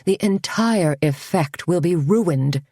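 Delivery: slow, drawn-out lament; a mild, slow moan of disappointment. Acted. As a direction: mourn the lost look, lightly. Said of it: "Carmen moaned".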